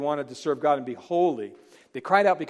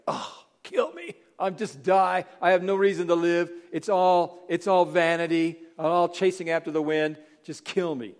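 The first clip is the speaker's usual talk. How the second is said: self-pitying whine; 2 semitones higher than usual. Retold or imitated. Preacher mocking himself moaning at small troubles. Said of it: "first guy to just like".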